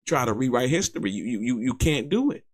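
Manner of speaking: ordinary talk, nothing marked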